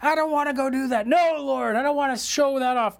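mock reluctant believer balking; whiny refusal. Believer refusing God's call, whiny mock protest. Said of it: "he's not gonna let us say".

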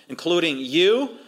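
slow, with "you" drawn out; stretched, rising "you"; singling out. Retold or imitated. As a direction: land pointedly on "you". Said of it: "he turns it on them".

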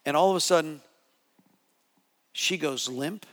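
normal talking voice

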